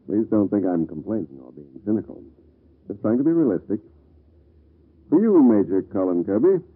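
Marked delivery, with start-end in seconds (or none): 5.1-6.6 pointed, exaggerated flattery; needling praise with a grand build-up; laid on thick. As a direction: lay the tribute on thick, announcing his full name. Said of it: "That's putting it on a bit thick".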